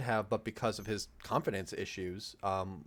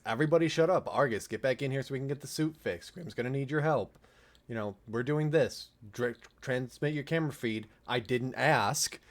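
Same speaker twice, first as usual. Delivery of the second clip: commanding Blue; 3 semitones higher, 3 dB louder, faster than usual. Retold or imitated.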